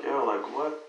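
rising into a high, outraged mock yell; retold alarm. Father recalling confronting the mother after his son is hit.

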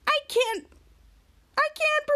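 high, halting gasped words; mock panic in short bursts; retold breathlessness. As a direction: act out struggling for air. Acting out someone unable to breathe.

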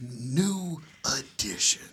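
slow, drawn-out put-on Boston accent. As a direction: savour the name in a mock Boston accent. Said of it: "That's how you have to say it".

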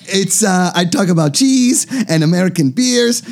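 hammed-up, wobbly German-accented podcast plug; bad German accent. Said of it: "I'm going to a German accent".

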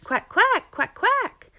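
very high, loud duck calls. A narrator's reading. Mother duck calls through the reeds, loud quacks. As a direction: quack out piercingly to be heard. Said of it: "quite a bit louder".

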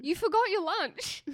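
high, loud and slow announcement. Retold or imitated. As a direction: call it out slowly and loudly. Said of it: "She says in a very loud voice".

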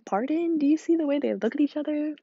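incredulous. Retold or imitated. Arguing Harry and Cedric with brother.

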